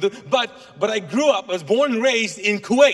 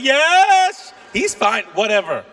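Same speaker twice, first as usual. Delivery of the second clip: wife's voice; 3 semitones higher, 6 dB louder, much slower than usual. Retold or imitated. Pastor mimicking his wife gushing over the lookalike. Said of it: "She's like".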